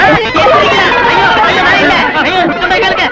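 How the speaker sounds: a man yelling to mourners that he is still alive, panicked; panicked protest. Acted. வேகமான பதற்றக் கூச்சல்.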